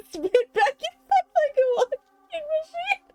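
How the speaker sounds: very high squeal through laughter; laughing. Real, not acted. Streamer recovering from a coughing fit, laughing in a high squeal.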